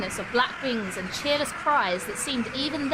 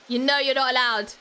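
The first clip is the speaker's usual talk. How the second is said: scolding; 3 semitones higher, 6 dB louder than usual. Real, not acted. Scolding the cat.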